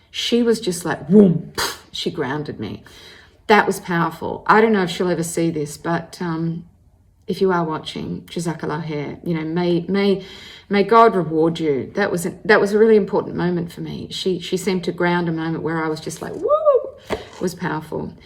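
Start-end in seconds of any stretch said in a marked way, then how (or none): 1.1-1.5 loud vocal whoom effect; imitated whoosh. Imitates being grounded. 16.3-16.5 drawn-out vocal woo; imitated woo. Imitates her own overwhelmed feeling.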